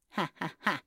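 acted ha-ha-ha laugh; gnome's spelled laugh. Gnome laughing at the sisters, acted laugh. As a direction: laugh it out merrily. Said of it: "рассмеялся Базиль".

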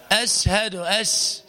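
أشهد with a thin, misplaced sh; mispronounced shin. Shown as a demonstration. Teacher imitates muezzins' common error, misplaced sh. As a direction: let the sh in أشهد slip forward off mid-tongue. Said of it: "فتراهم ينطقونه هكذا".

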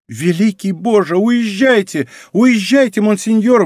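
high, urgent plea to flee; mounting, high-pitched urgency; alarmed exclamation. A narrator's reading. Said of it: "воскликнула маркиза".

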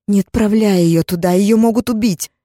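loud pleading; desperate plea. Acted. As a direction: beg him not to send her out. Begging for child.

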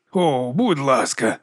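slow scornful snort of please. Acted. The baron scoffs at Vigga, slow and scornful. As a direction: drag it out with scorn. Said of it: "пирхнув барон".

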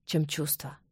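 ordinary delivery

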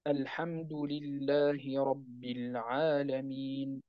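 very slow recitation with the madd held two beats; short madd. Shown as a demonstration. Teacher showing the shortest permitted lengthening. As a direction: hold the vowel before the نون of العالمين two beats. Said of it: "يمكن أن تمد حركتين".

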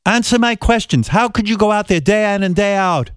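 hammed-up indignant grilling, slowing on how dare you; mock furious interviewer. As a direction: play the outraged TV host tearing into a guest.

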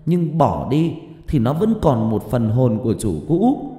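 angry scolding. A narrator's reading. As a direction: berate them like a frightened, angry mother. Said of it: "hét ầm lên".

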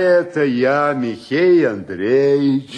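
insistent call through to someone. Acted. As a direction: call out who it is, drawing out the name. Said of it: "Ну и чего ты орёшь?". (громко окликая, протяжно)

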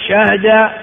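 شهد as shahda; lightened middle. Shown as a demonstration. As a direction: say شهد with a and vowelless h. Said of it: "أربع لغات". (شهد بفتح الشين وتسكين الهاء)

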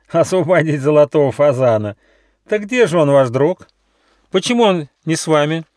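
mocking fox. A narrator's reading. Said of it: "захохотал".

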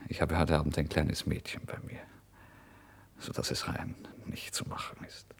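confiding hush, fading to breath; soft secretive whisper. Acted. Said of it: "Er kam flüsternd näher".

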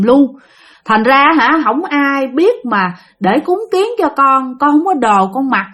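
high, mournful spirit wailing its hunger and cold; lamenting ghost. Acted. Drowned spirit tells the monk its cold hunger, mournful. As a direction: plead your misery to the monk.

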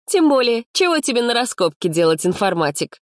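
high, sweetly teasing; tenderly smiling. A narrator's reading. Activist teases the computer student, affectionate. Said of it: "ласково улыбнулась Маринка".

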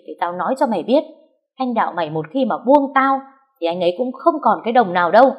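harsh, rough scolding like a market butcher woman; fierce. Acted. Wife threatening her husband's mistress, fierce and coarse. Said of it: "nói chuyện dữ dằn như vậy".

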